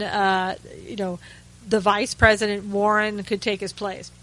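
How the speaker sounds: dry sarcastic tone, lightly mocking. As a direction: say it with a wink of sarcasm. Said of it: "I'm being sarcastic there".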